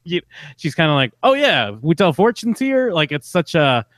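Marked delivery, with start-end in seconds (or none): 1.2-2.9 high, slow mock indifference; flippant. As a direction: drag it out as if you barely care. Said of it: "so flippant about her career".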